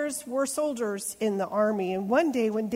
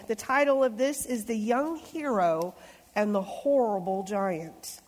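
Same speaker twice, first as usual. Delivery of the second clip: story title. Acted. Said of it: "hearing how I'm reading the story".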